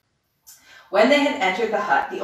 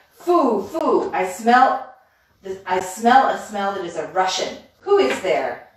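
witch crying out; 4 dB louder than usual. Acted. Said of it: "she cried".

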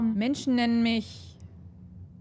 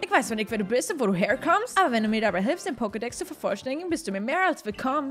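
lightly lowered character voice. Acted. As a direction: read it in a strained put-on voice. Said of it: "Halsschmerzen von der Stimme".

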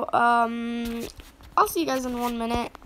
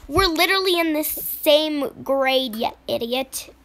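annoyed retort; 5 dB louder than usual. Pretend. Sibling argument.

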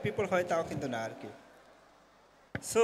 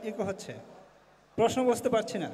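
echo. Real, not acted. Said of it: "too much echo".

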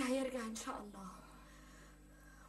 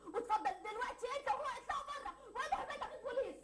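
laughing threat; 8 semitones higher than usual. Acted. Daughter throws the men out.

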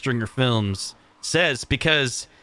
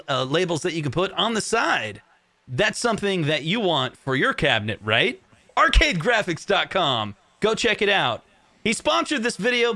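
sponsor pitch; 2 semitones higher than usual. Pretend. Host plugging a friend's products to viewers, mock sales pitch. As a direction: lively pretend ad read, punching the selling points. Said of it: "do pitches like this".

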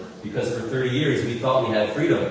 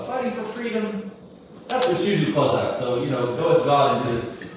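mocking send-off; 4 semitones higher than usual. Marusa mocking the Cossacks.

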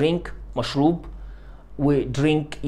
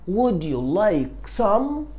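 drawn-out rising question, a bit higher; very slow offer; 5 semitones higher, much slower than usual. Shown as a demonstration. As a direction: stretch it out to invite. Teacher models offering question very slowly. (عرض بطيء جدًا)

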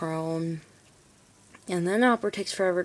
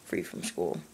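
much lower, dramatic announcer tone; deep voice; 13 semitones lower, 5 dB quieter than usual. Acted. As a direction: drop into a deep voice. Drops into deep voice.

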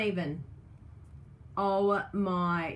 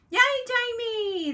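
much higher, louder cheer; 14 semitones higher, 6 dB louder than usual. Real, not acted. Crafter cheers a viewer in the chat, high loud cheer.

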